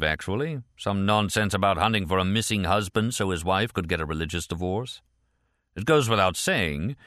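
lightly voiced sceptical interrogator; British supervisor. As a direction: list suspicions as questions, pitch lifting. Supervisor questions Martin.

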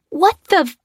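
sudden high yelp of shock; startled cry. Acted. Lucy startled as her tire blows out, sharp yelp. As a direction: jolt of alarm mid-curse. Lucy cries out as tires blow.

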